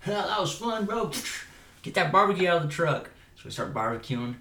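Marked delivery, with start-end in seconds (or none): 0.1-3.1 higher, pumped-up acted call; playful whooping enthusiasm; hollering to a buddy. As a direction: call out happily to a bro, pitched up. Acts out shouting to bro.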